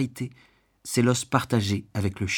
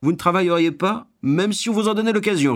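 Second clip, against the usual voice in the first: loud, high-pitched indignant roar; 9 semitones higher, 4 dB louder than usual. A narrator's reading. Householder accusing a beggar of refusing work, roaring. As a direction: bellow it in outraged disbelief. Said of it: "rugit-il".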